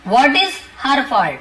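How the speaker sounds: each word said slowly and clearly for learners; slow model sentence. Shown as a demonstration. Teacher slowly models the sentence for Hindi learners. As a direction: spell it out slowly so students can copy. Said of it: "teacher models the sentence slowly".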